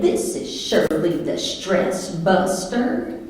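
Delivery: slow Southern twang, lightly put on. Wife introducing her stress-busting alter ego on the phone, Southern twang. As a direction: announce the character with a slow Southern drawl. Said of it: "kick in that Southern twang".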